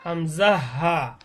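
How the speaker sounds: "হামজা হা" drawn out slowly from the start of the throat; open-throat articulation. Shown as a demonstration. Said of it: "গলা ছেড়ে দিয়ে উচ্চারণ করব". (গলা ছেড়ে টেনে "হামজা হা" উচ্চারণ)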